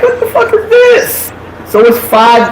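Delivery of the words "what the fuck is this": high, laughing what-the-hell; half laughing, half shocked; retelling her shock at two more men walking in, laughing; laughing disbelief. Retold or imitated. Shocked at more guys arriving.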